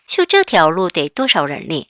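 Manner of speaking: slow, clear repeat of the sentence; slow model reading. Shown as a demonstration. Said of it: "같이 읽어볼게요". (천천히 다시 읽어주기)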